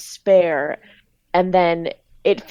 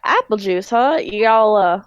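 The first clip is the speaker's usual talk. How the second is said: hedging southern grocer; Speed's southern accent. Acted. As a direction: steer the customer away in a light southern accent. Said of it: "everyone in this grocery store have a southern accent".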